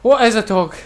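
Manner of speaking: imitated Welsh accent; Rod Gilbert. Friend echoing a comedian's catchphrase, mock Welsh accent. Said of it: "I said it in a Welsh accent".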